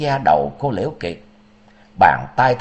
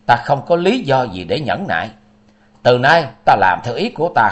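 a firm raised roar of refusal. Acted. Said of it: "Liễu Kiệt gầm lớn".

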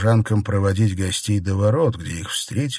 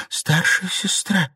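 reasoning gently; 8 semitones higher, slower than usual. A narrator's reading. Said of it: "попыталась вразумить её".

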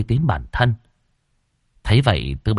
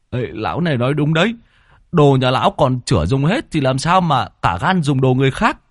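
high whiny man; 3 semitones higher, faster than usual. Acted. Thot to Tam Tu.

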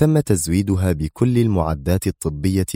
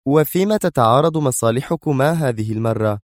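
higher-pitched, uneasy woman's voice; tense question; 7 semitones higher than usual. Acted. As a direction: ask with a touch of tension. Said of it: "سألته منى في توتر". (بتوتر)

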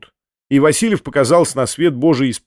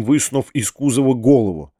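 usual speaking voice

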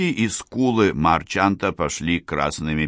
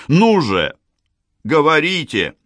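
urgent; 9 semitones higher, 5 dB louder than usual. A narrator's reading. Urging the stunned woman.

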